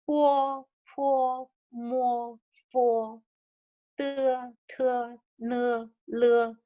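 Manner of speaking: consonants sounded out one by one, level and held; demonstrating consonant sounds. Shown as a demonstration. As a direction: recite each sound evenly, like a teacher. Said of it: "when I pronounce it".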